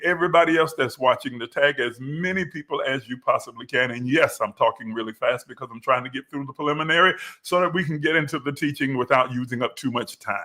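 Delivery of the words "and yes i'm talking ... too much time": rushed fast delivery; rattling through it like an auctioneer; talking fast. Real, not acted. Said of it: "I sound like an auctioneer".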